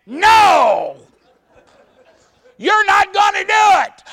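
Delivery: high, loud shouting wife; wife yelling no. Retold or imitated. Wife yelling at her husband not to drive under the overpass, loud shout. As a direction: yell at him to stop.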